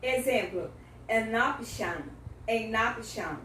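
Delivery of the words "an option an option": AN OPTION joined as 'an-noption'; teacher's linked model of AN OPTION; linking sound. Shown as a demonstration. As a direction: carry the N of AN into OPTION. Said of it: "nós vamos fazer o link em sound".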